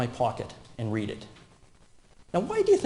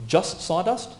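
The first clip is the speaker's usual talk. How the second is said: incredulous echo; 5 semitones higher, slower than usual. Shown as a demonstration. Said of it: "No, it's explosive".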